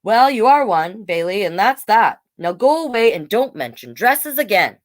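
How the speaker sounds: firm dad laying down the law; father closing the subject; stern father. Acted. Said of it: "said her father".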